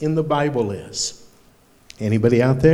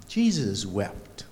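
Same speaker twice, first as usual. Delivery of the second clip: Jesus wept, softer and slow, tender; gentle reassurance; 6 semitones lower, 6 dB quieter, slower than usual. Acted. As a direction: say "Jesus wept" softly and slowly, consoling. Reassuring children it's okay to cry.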